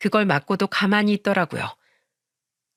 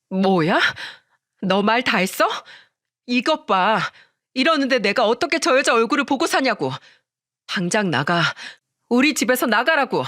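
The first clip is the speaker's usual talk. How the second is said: indignant, mildly heated wife; offended wife's exasperated demand; angry, insulted wife; 3 semitones higher than usual. Acted. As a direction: challenge the insult and order them out.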